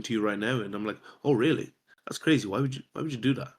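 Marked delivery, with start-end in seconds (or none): 1.2-3.5 casual, nonchalant. Retold or imitated. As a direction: react as if it's no big deal. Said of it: "very casual, very nonchalant".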